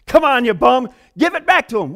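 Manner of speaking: loud mock police bark; gruff police. Police dragging the thief to the pastor, loud mock bark. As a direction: play the cops hauling him in. Police voiced in retold story.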